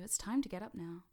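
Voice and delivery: brighter, lifted call to get up; wake-up voice. Shown as a demonstration. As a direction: rouse them from trance. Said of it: "That voice that tells you".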